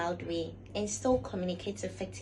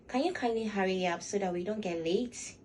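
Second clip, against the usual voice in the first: polite request. Shown as a demonstration. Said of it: "you get to see the difference".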